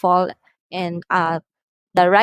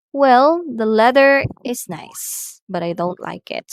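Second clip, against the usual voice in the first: hesitant partial answer; 4 semitones higher, 3 dB louder than usual. Shown as a demonstration. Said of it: "the speaker hesitates to fully express his or her thoughts".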